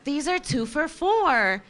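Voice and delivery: slow, patient cashier voice; slow cashier repeat. Retold or imitated. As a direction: spell it out like a clerk. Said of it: "she's like".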